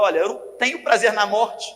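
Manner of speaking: rising into a loud, high cry; God crying out. Acted. God crying out to sinners he wants to live, building loud plea. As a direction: plead with growing force as God calling out. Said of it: "Ele tava gritando".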